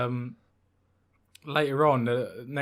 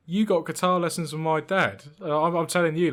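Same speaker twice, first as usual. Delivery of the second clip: higher, louder mock astonishment; retold disbelief; 6 semitones higher, 7 dB louder than usual. Friend learns about his dad's guitar lessons, retold disbelief. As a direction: imitate a friend's loud, raised-voice disbelief. Acted shocked exchange between two friends.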